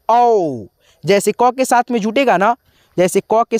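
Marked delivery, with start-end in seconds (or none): 0.1-0.7 औ stretched slowly as a long "au"; slow vowel demo. Shown as a demonstration. Teacher names the sound of the औ sign, slow demo. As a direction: pull औ out slowly so the sound is clear. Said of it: "इसका sound होता है".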